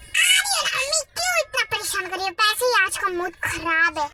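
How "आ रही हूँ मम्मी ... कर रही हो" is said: annoyed shout. Acted. Daughter yelling back at nagging mother, annoyed shout. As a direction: shout down to mum, fed up.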